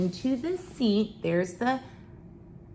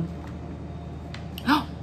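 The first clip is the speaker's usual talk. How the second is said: long, soft gasp; dramatic gasp; 3 semitones higher, 7 dB quieter than usual. Acted. Reader surprises children before next verse, dramatic gasp. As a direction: draw in breath in mock surprise.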